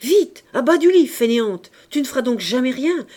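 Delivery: loud, high angry scolding; thundering shout. A narrator's reading. Father to younger daughter in bed, thundering shout. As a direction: thunder the order at a slacker. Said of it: "lui cria d'une voix tonnante".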